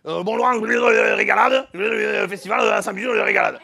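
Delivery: loud, hesitant mock mayor on the phone; a hammed-up village mayor stumbling over his invitation; imitating the mayor. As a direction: blurt it out like a clumsy small-town mayor. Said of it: "il me parle comme ça, il me dit".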